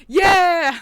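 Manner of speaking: high, loud shouted yeah; kids cheering yell. Retold or imitated. Kids answering the rocket grunt, loud and high. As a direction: cheer it like an eager kid. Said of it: "the kids were like".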